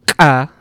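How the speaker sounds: ka popped hard at the back of the throat; strong ejective. Shown as a demonstration. Isolating the too-strong sound, ka with full ejective. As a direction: fire off ka as a uvular ejective. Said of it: "it's not super strong".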